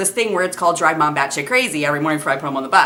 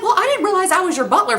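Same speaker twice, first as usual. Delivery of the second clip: sarcastic. Retold or imitated. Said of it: "I'm like".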